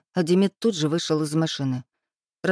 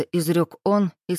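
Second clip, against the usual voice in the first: usual speaking voice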